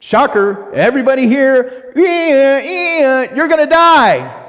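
high, loud mock-alarmed announcement; spring it on them like shocking news; playful high-pitched alarm. Preacher mock-shocks the crowd.

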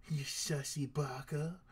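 slow, put-on villain voice for the impostor; a lightly distorted, taunting impostor voice; distorted imposter voice. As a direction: drag it out like a creepy impostor teasing his victim. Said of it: "saying that with your distorted voice".

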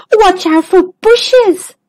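high, slow squeaky warning; a timid zebra squeaking out the words; squeaked. Acted. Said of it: "squeaked Zoe".

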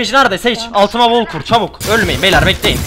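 urgent shouted orders to the team; battle yell. Real, not acted. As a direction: bark commands over gunfire. Calling orders mid firefight. (savaş naraları)

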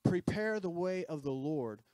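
a measured herald's cry to the people. Acted. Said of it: "We're crying out".

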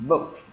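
"Booked" closing on a T; final T sound. Shown as a demonstration. Teacher checking learners follow "Booked", final T sound. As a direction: end "Booked" with a T, no extra syllable. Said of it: "Là âm T".

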